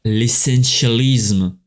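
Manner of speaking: "essentialisme" drawn out slowly, with effort; laboured pronunciation. Real, not acted. Podcaster struggling with a hard English-derived word, laboured pronunciation. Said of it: "qu'est-ce qu'il est dur à dire".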